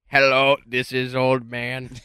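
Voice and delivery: slow, odd leprechaun voice. Retold or imitated. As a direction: drawl it like a leprechaun. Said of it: "Like the leprechaun voice".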